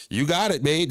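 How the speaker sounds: a mock-sweet warning, with an edge; what she really meant. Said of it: "That's what she meant".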